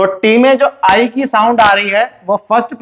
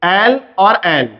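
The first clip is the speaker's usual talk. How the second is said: slow letter names; 2 semitones lower, much slower than usual. Shown as a demonstration. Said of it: "For example, देखिए".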